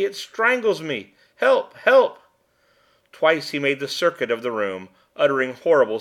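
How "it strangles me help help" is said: high, slow choking panic rising to loud screams for help; terrified cry. A narrator's reading. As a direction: scream for help as if being strangled. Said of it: "he cried ... the most awful terror".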